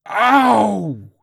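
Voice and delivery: very high, loud long cry; pained scream. A narrator's reading. Old man's foot is pierced, pained scream. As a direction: scream out the pain. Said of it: "he screamed".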